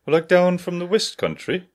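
attempted West Country farmer accent. Shown as a demonstration. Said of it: "farm accent?".

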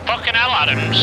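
angry shout. Real, not acted. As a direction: shout at the driver to stop. Yelling at a driver.

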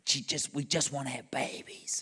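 whispered, heartbroken plea; imitated tearful plea. Waiter opening his life up to a stranger, whispered plea.

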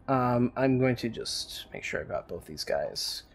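whispering to himself; whispered aside. Real, not acted. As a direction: mutter it under your breath.

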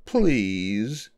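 drawn-out pleading fox; mildly hammed-up wail; wailed plea. A narrator's reading. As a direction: beg with a long, plaintive word. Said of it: "the fox wailed".

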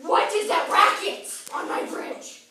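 very high, very loud outraged roar; roaring troll. Acted. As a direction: roar it at whoever is making the noise. Troll roars at noisy intruder.

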